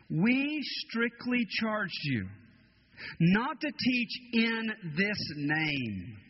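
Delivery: slow, stern council charge. Acted. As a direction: spell out the ban slowly. Council's stern charge read slowly.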